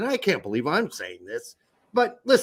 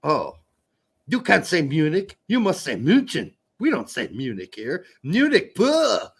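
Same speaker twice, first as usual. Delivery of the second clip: mock German local. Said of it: "they don't go".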